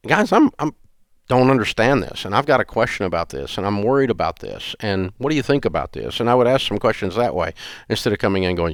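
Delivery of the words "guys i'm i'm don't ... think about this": gentle questioning. Retold or imitated. Father to grown kids, gently questioning. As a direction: ask like a concerned friend, not a boss. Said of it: "I would come in and go".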